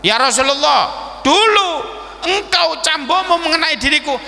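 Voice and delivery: acted bold accusation; insistent challenger. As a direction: press the demand before everyone. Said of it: "Sahabat niki sanjang nopo?".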